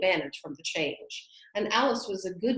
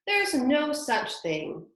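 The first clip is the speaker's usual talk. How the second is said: angry; 6 semitones higher, 3 dB louder, much slower than usual. A narrator's reading. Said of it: "Alice was beginning very angrily".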